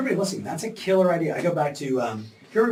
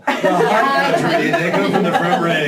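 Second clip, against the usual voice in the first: chuckling as you parrot the local lingo; mock local phrasing; 3 semitones higher, 7 dB louder than usual. Host teasing guest's local phrasing, laughing mock echo. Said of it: "That sounds very local".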